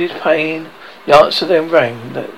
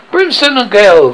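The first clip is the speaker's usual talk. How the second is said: loud, higher-pitched outburst from an angry captain; storybook pirate captain thundering; thundered oath; 5 semitones higher, 9 dB louder than usual. A narrator's reading. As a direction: thunder it out in outrage. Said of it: "thundered Hook".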